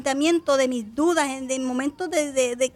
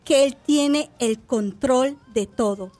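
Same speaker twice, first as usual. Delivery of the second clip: louder, slow prophetic declaration; visitor's authoritative prophecy, louder and slow; with authority; 5 dB louder, slower than usual. Retold or imitated. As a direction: proclaim it with authority, slowly. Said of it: "yo con autoridad".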